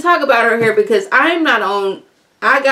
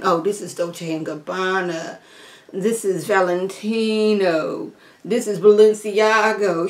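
bragging; 2 semitones lower, 5 dB quieter than usual. Retold or imitated. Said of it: "she is always going on".

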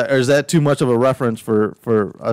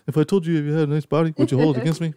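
quick higher flirty line; pickup line demo; 5 semitones higher, much faster than usual. Shown as a demonstration. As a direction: pitch it to the guys. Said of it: "so use that, guys".

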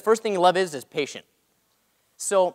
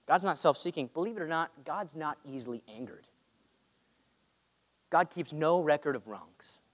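solemn litany; 2 semitones lower than usual. Acted.

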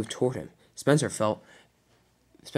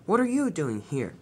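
surprised, higher-pitched question; 4 semitones higher than usual. Acted. Spencer questions Thomas in return, surprised. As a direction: ask with mild astonishment. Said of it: "Spencer was also surprised".

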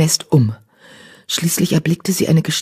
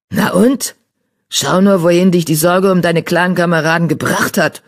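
put-on mildly accusing old tomcat; reproachful muttering. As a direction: grumble with a touch of blame. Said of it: "murmelte eine vorwurfsvolle Stimme".

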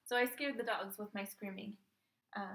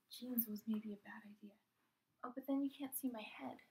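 whispering; 5 dB quieter than usual. Real, not acted. Whispered aside during attempt.

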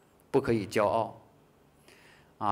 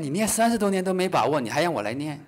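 higher, louder challenge, easing off at the end; incredulous retort; 4 semitones higher, 3 dB louder than usual. Acted. Doubtful listener answering a veteran chanter's invitation, incredulous retort. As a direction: throw it back in mild disbelief.

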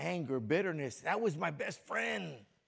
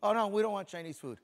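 higher, louder mock refusal with a laugh; 5 semitones higher, 7 dB louder, faster than usual. Preacher mimics his family refusing Chinese food, laughing. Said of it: "So when they ask me".

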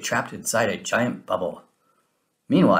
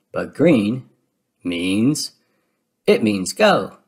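raised Donald shout; 5 dB louder, much slower than usual. A narrator's reading. Donald shouting to pull the green lever, loud. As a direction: call it out loud. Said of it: "shouts Donald".

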